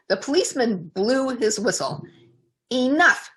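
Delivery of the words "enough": firm cutoff. Acted. Policeman cuts her off.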